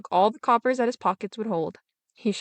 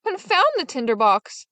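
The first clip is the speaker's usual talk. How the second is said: a higher, exasperated shout; angry shout; 5 semitones higher than usual. Acted. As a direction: snap it out in annoyance. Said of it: "the soldier shouted".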